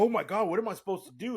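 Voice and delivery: high, fast mock panic; retold panic. Retelling dying in Silent Hill, high mock panic. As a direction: squeal it like a scared kid. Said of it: "I was like".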